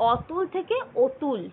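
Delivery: অতুল spoken slowly and high, then অতুল again with the অ shifted toward ও; slow demo pronunciation. Shown as a demonstration. Teacher slowly showing students how অতুল is distorted. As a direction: carefully sound out অতুল twice, showing how the vowel changes. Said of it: "অস্বাভাবিক বা বিকৃতি রীতি".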